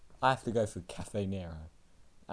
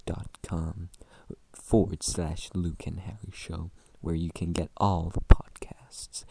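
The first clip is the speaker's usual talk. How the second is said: sultry voice; 3 semitones lower than usual. Acted. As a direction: purr the plug like a late-night DJ. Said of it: "my sultry voice".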